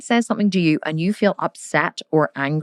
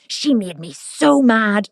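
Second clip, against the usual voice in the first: sulky complaint; 4 semitones higher, slower than usual. Retold or imitated. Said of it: "you go into your room and you're like".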